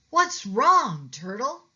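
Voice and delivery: high, loud caring question; concerned cat call. A narrator's reading. Pete asking his friend Turtle what is wrong, high and caring.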